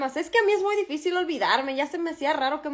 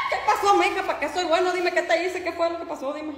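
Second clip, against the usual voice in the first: startled eagerness; 4 semitones higher than usual. Acted. Husband suddenly startled and eager.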